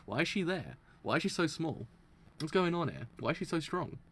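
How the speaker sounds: mock confusion, one puzzled question after another; imitated bewilderment. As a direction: act out a lost viewer's bewilderment. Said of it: "Beforehand, you're like".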